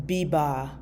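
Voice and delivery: first syllable of biba read as "bee"; English-style misreading. Shown as a demonstration. Teacher shows learners how English speakers misread it, biba with a "bee" sound. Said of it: "But this E is pronounced as".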